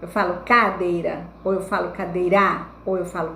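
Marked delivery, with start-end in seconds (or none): 0.4-1.3 cadeira wrongly stressed as CÁ-deira; stress on first syllable. Shown as a demonstration. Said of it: "a mais forte ficou aqui". 1.9-2.7 cadeira wrongly stressed as cadei-RÁ; stress on last syllable. Shown as a demonstration. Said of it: "a mais forte ficou aqui".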